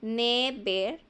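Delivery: "Never" with short E sounds, spoken carefully; short-vowel demo. Shown as a demonstration. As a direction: model "Never" syllable by syllable with short E. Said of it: "esos son sonidos cortos". ("Never" con las E cortas, marcando las sílabas)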